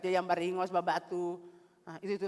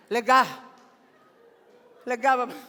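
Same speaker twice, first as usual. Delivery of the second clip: relieved exclaim; 4 semitones higher, 10 dB louder than usual. Real, not acted.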